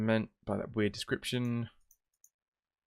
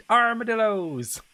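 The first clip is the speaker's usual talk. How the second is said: excited shout; 11 semitones higher, 8 dB louder, slower than usual. Real, not acted. Realizes the answer, exclaims.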